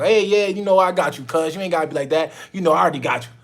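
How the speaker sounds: high, loud, slangy client voice; casual street talk. Retold or imitated. Client talking casually to the host, loud street slang. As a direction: play it loose and overfamiliar. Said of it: "they talking like they trying to talk".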